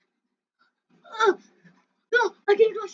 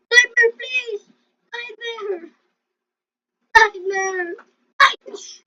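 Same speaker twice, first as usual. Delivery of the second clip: high, loud begging cry; loud plea; 5 semitones higher, 8 dB louder, slower than usual. Real, not acted. Player begging Nightmare to survive, loud plea. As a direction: beg your teammate loudly. Pleading for teammate.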